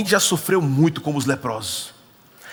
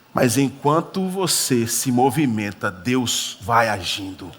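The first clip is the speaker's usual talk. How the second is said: preaching; 2 semitones lower, much slower than usual. Acted. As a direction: drive the point home, word by word. Preaching the sermon's point.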